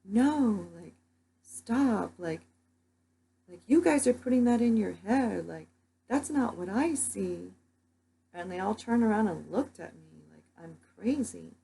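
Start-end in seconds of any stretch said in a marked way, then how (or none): 0.0-7.5 higher, louder retold call to a crowd; mock yell, higher and louder. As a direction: call out to stop the panic, moderately loud. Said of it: "yelled out to everyone".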